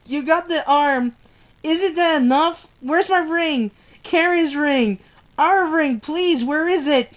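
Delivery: desperate, rising plea for the ring; pleading soldier. Acted. Amputee begs nurses for his ring, desperately pleading. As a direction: beg for it before passing out.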